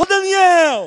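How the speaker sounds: very high, loud, cheerful, joyful voice. Acting out a man calling out to Daniel, as a mock-joyful call. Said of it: "isso é alegria".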